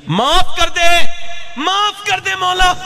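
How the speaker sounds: very high, slow wailing prayer; weeping plea. Retold or imitated. Woman weeps to God for forgiveness, high slow wailing plea. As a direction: beg for mercy through tears. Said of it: "रो के बोली".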